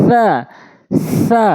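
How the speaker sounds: সা very light, tongue tip at teeth; touch সা lightly. Shown as a demonstration. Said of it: "একদম হালকা করে".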